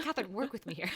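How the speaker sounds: teasing impression through giggles; laughing imitation. Host voicing cohost's appeal to Catherine, laughing imitation. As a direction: laugh through a mock plea.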